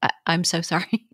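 flustered on-air apology; apologetic. Retold or imitated. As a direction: stumble into a sheepish sorry. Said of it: "I'll be like".

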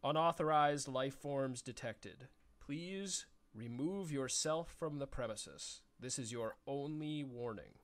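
slow, measured machine voice; robot voice. Acted. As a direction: announce it like a security robot. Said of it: "in a very robotic voice".

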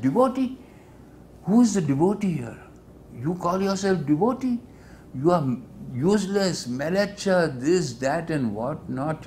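very high, loud shouting scorn; furious tirade. Retold or imitated. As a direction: explode at him, mocking the word devotee. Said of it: "he was furious".

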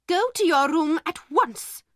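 high, sharp command; angry order. A narrator's reading. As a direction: send her off at once, cross. Angry mistress sends girl away.

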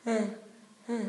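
short mock-crying gasps; imitated baby's cry. Student showing how she cried, imitated baby sobs. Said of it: "they just say like this".

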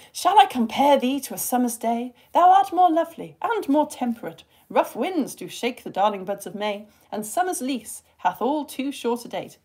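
expressive sonnet recital; verse reading. Shown as a demonstration. Teacher reading a sonnet to test the class, expressive.

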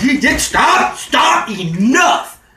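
high, loud commanding stop; mock yelling stop. Telling his date to stop, a hammed-up high yell. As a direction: shove the words at her to make her quit.

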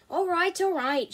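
exasperated surrender; grumpy. A narrator's reading. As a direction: give in with loud, grumpy impatience. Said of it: "she grumped".

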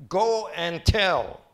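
slow, loud Go and tell; emphatic command. Acted. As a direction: command it, slowly and firmly. Jesus's command in reading.

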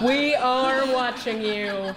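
slow, eerie voice from nowhere; spooky hidden watcher, slow. Acted. Hidden host speaks eerily.

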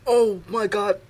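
talking through a burning mouth; words strained by hot wings; mouth burning from spicy food. Real, not acted. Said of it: "Oh, my mouth is burning".

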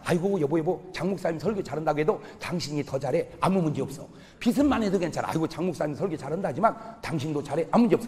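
gently butter up the husband; sweet flattering wife. Acted. Wife soothing her pastor husband, softly coaxing.

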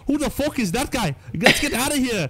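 put-on high-pitched, botched Irish accent; terrible Irish accent. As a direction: put on a bad Irish accent that slips as it goes. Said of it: "That's a terrible accent".

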